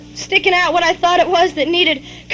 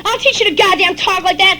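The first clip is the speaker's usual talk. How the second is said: raised angry voice, high at first; angry yelling; 4 semitones higher than usual. Acted. Father yelling at fleeing child, angry yell. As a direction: yell a threat after a runaway. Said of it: "And you're yelling".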